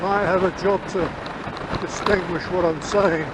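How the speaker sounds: speaking in a helmet with visor up; inside a helmet. Real, not acted. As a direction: wind noise through open visor. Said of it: "we got a fair bit of noise coming through".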